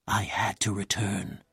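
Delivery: softly spoken confession, not truly whispered; a hint of a lover's whisper; mock whisper. A narrator's reading. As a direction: hush it to her. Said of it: "he whispered".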